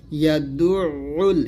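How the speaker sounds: slow ইয়াদুউল with a clear throaty break before "উল"; pronunciation demo. Shown as a demonstration. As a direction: model ইয়াদুউল with two distinct u sounds. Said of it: "এরকম".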